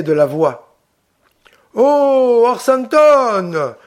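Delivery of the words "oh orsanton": high, loud worried call, Orsanton drawn out slow; running up, out of breath and anxious; breathless alarm. A narrator's reading. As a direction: bandit rushing to his wounded friend. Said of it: "accourant tout essoufflé".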